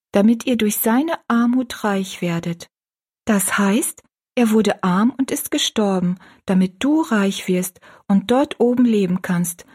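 put-on a child sharing her faith; a hint of a devout little girl explaining grace; young Rosalie, earnest. Rosalie voice again.

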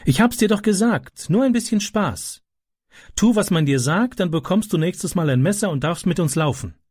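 high, swaggering youth voice; lightly voiced gang leader, persuading; cocky older boy. A narrator's reading. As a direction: lord it over the younger kid. Tyke voiced, bullying boy.

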